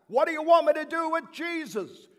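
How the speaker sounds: fed-up governor shouting back at the crowd; yelling back. Acted. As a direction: shout over the mob, fed up. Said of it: "so I yelled back".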